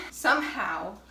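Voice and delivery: winded from kneading dough; out of breath. Real, not acted. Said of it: "I'm, like, out of breath".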